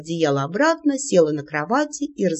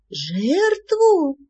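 yelling; 8 semitones higher than usual. Acted. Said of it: "заорала я".

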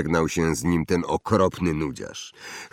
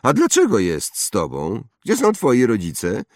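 put-on higher, louder haughty boy voice; snobbish boy; 5 semitones higher, 4 dB louder than usual. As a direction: play a spoiled rich boy. Draco voiced. (wyższy głos zarozumiałego chłopca)

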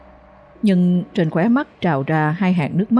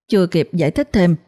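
usual speaking voice

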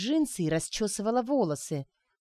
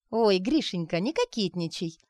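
sly teasing. Acted. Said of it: "Лукаво сощурилась Арина".

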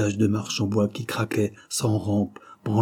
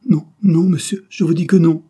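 high, loud frightened protest; shrill protest while being pushed inside; panicked refusal; 8 semitones higher, 8 dB louder than usual. Acted. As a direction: refuse him with all your strength. Girl resisting at the door.

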